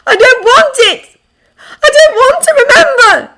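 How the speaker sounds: high, anguished scream; loud, tearful high-pitched outburst; crying out. A narrator's reading. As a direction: wail at full force in pain. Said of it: "she's crying out in his arms".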